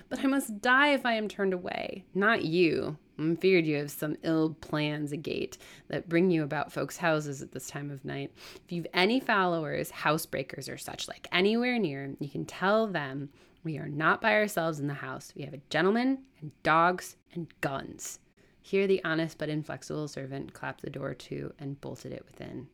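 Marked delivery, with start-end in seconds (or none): 0.1-2.0 high, loud cry of despair; desperate plea. Acted. Turned-away woman begging for her life, desperate. 2.1-18.2 lightly voiced stern servant, punching key words loudly; suspicious servant. Servant warning possible housebreakers away, suspicious.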